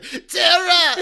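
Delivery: high, loud shouted call; Beast Boy impression. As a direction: yell the name like Beast Boy. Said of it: "that was my Beast Boy impression".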